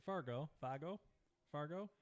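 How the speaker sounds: Fargo said with a Boston accent. Shown as a demonstration. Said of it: "That's my Boston accent coming out".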